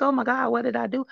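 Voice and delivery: high and fast, imitating panicked self; retold panic. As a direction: replay the sudden panic, rushed. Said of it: "and I was so scared".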